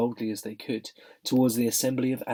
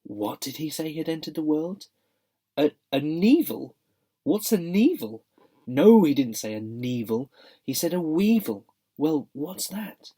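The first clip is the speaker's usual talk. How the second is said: confused creatures; 4 semitones higher, 4 dB louder than usual. A narrator's reading. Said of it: "saying things like".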